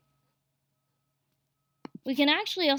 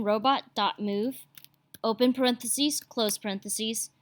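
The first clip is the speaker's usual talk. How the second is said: dictating. Shown as a demonstration. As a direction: read each symbol out deliberately. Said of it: "So I type in".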